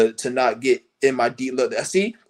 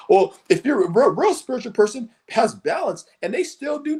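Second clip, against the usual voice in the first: mock spiritual lecturer; 7 semitones higher than usual. Mocking spiritual people.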